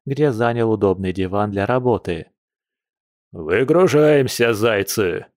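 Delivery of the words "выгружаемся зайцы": put-on slow, drawn-out command from an old general; rumbling old bear. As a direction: roll the words out slowly, lightly voiced old bear. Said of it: "пророкотал старый медведь".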